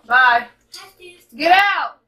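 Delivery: loud, sharp shout to shoo someone out; yelling at family. Real, not acted. Shouting at family interrupting recording.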